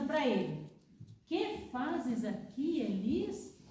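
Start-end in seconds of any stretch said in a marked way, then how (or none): 1.2-3.6 quiet question. Acted. God asks second time.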